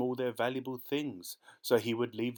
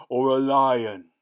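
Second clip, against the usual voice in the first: slow, loud, higher fierce ogre; fierce roar; 3 semitones higher, 13 dB louder, slower than usual. Acted. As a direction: roar the word lion proudly. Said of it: "how fierce he was supposed to be".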